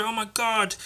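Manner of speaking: high, hushed horror; mock panic. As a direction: play a shocked onlooker, high-pitched. Onlookers see knife at kid's throat.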